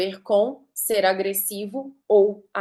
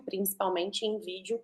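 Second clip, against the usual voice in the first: softly repeated; 2 semitones lower, 11 dB quieter than usual. Shown as a demonstration. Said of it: "velocidade de fala, as pausas".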